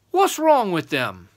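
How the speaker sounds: high, loud giant's question; demanding giant. Acted. Second giant questioning the boy, demanding.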